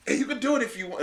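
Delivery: lightly voiced young clerk. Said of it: "he was like".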